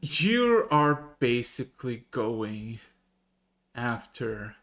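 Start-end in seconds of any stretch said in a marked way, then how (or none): none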